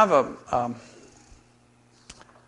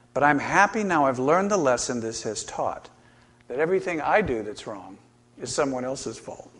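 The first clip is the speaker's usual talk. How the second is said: rhythmic sing-song verse reading; comic poem recitation. Shown as a demonstration. Preacher reads a comic poem to the congregation, sing-song. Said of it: "Here's another poem".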